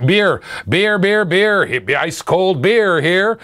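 sing-song ballpark beer calls; stadium vendor hawking. Pretend. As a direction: call out beers like a stadium vendor. Host plays a ballpark beer vendor.

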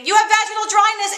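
high, loud blurted accusation, stress on have; mock scream. Throwing the box at her mother, a mock scream. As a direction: yell it and bolt.

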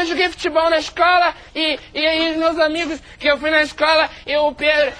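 high schoolkid voice; child voice. Acted. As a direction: tell it like a kid. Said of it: "simular o processo de envelhecimento".

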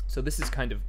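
talking while drinking; words around a sip of drink; while sipping a drink. Real, not acted. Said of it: "sorry, I'm drinking".

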